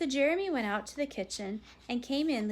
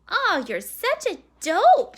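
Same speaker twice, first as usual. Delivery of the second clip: louder, higher, drawn-out jeer; scornful boy; 11 semitones higher, 14 dB louder than usual. A narrator's reading. Brother to his scared sister, scornful. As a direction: slowly rub in the insult.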